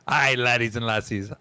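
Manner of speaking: lightly Scottish dwarf greeting; a hint of a Scottish innkeeper; mild Scottish lilt, hearty; Scottish dwarf lady. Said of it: "Thanks, Scottish".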